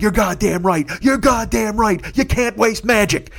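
high, loud gleeful chant; gleeful shout. Retold or imitated. Celebrating Hester's touchdown with friends, gleeful high shout. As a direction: crow it in triumph, sing-song. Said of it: "I'm like".

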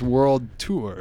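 "Tour" said slowly with a long oo; drawn-out oo tour. Retold or imitated. Doubting anyone announces a band's tour so, drawn-out oo. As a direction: stretch "Tour" as TOO-er. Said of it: "I don't think they say".

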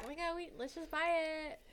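high, soft mock excitement; imitated eager buyers. Mimicking people who buy Ouija boards, mock eagerness. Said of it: "they're just like".

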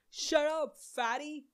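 high, jeering mock troll voice; mock troll insult. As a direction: sneer it like a nasty commenter. Mocking a troll's comment.

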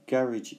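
"garage" stressed on the first syllable, ending like -idge; common British pronunciation. Shown as a demonstration. Teacher gives learners the commonest British way, first-syllable stress on "garage". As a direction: say "garage" to rhyme roughly with carriage. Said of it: "is the most common pronunciation".

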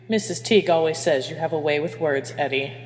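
understated, dry delivery. Acted. Captain remarks on her engineer's wife, dryly. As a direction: say it dryly, without emphasis. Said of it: "Hermione said dryly".

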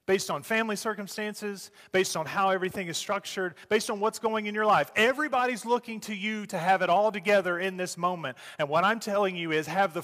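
rising preacher's fervor. Acted. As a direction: build the appeal with force. Preacher builds urgently.

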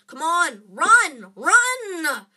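loud, high, escalating shouts; frantic shouted urging; urgent yell. A narrator's reading. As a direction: yell at a friend to flee. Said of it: "Harry yelled at Hermione".

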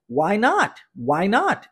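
"Why not?" with a clear rising question tune on "not". Shown as a demonstration. Teacher showing question intonation to students, rising end. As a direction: let "not" rise like a real question. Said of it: "Olha a entonação de pergunta".

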